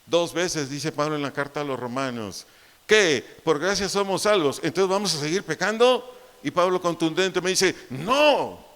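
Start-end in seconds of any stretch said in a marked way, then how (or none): 2.9-6.1 louder, raised pastor's challenge; preached loud questions; indignant rhetorical questions. Acted. Quoting Paul's rhetorical questions. 7.9-8.6 loud, firm exclamation; emphatic preached no; shouted no. Acted. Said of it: "Grité porque así está".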